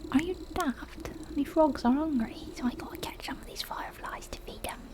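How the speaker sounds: put-on indignant young frog catcher in a character accent; scrappy frog boy, indignant. Frog boy explains his frogs are hungry, indignant character voice.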